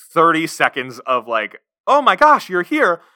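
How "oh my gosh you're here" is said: put-on excitement, high, loud and gushing. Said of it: "She puts up, like, thirty seconds of".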